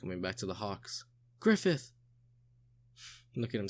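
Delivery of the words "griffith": high joyful shout of his name; calling out. Acted. The Hawks greeting Griffith, a high joyful shout. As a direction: call him from across the camp. Crowd calling to returning leader.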